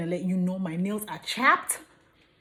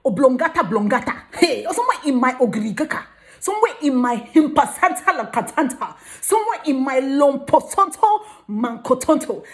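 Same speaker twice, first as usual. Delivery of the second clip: goofy made-up words; 4 semitones higher, 8 dB louder than usual. Pretend. Mock made-up brain parts, loud.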